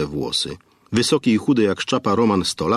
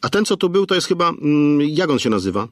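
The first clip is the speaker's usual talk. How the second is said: put-on curious girl; 8 semitones higher than usual. A narrator's reading. Aneta asks the owner about the customer, high and curious. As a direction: wonder aloud who he was.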